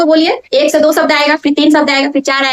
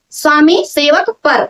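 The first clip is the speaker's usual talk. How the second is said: slow, leaning on "पर" to mark it; stress on पर; slower than usual. Shown as a demonstration. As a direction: repeat slowly, landing on "पर". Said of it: "पर आ रहा है।". ("पर" पर ज़ोर देकर धीरे से)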